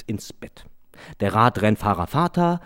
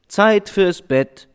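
high, slow, louder mother cutting him off; impatient mother; 10 semitones higher, 5 dB louder, much slower than usual. Acted. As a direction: hurry the child along. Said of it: "Sie war etwas ungeduldig". (ungeduldige Mutter, hoch und langsam)

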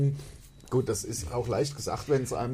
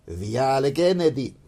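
put-on Italian accent; 3 dB louder than usual. Reading Italian address.

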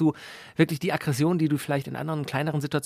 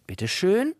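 mock bullfighter flourish; 4 semitones higher, slower than usual. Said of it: "wie so ein Torero übers Armaturenbrett".

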